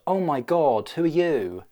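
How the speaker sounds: mildly startled pig voice; British pig. Acted. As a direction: look up in wonder as the pig. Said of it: "The British pig will look up and go".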